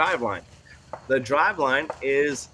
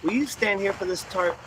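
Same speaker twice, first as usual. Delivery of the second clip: gentle asking tone; 4 semitones higher, 4 dB quieter than usual. Shown as a demonstration. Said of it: "it sounds like a question whenever we ask it".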